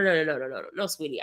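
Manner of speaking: calm him down sweetly; soothing reassurance. Retold or imitated. Reassuring the nervous driver.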